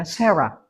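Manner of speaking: "Sarah" said the English way, SEH-ra; English pronunciation. Shown as a demonstration. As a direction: say "Sarah" with an "eh" first vowel. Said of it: "Mereka menyebutnya apa?".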